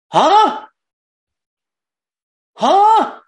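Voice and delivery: mock blank grunt. Mocking a grunted non-answer.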